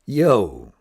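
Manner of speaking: loud, offhand Yo; a breezy street greeting; casual slang greeting. Shown as a demonstration. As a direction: toss it out like a buddy. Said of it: "A friend may come up and say".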